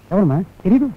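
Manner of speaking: pleading. Acted. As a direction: beg her to remember, drawing it out. Coaxing mother to recognize photo.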